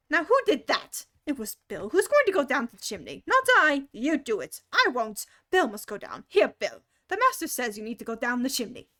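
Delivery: loud quarrelling animals; arguing crowd. Acted. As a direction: bicker loudly over who goes.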